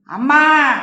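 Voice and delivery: loud shout of protest. Acted. Daughter shouting at her mother to stop, loud. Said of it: "సంయుక్త అరిచింది".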